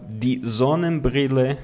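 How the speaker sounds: die Sonnenbrille said slowly, each syllable clear; slow German model word. Shown as a demonstration. Teacher models German word slowly for the class. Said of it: "o óculos de sol".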